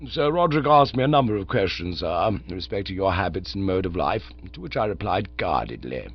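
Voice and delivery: calm, unruffled manservant; Jeeves the valet. Acted. Jeeves reports to Bertie.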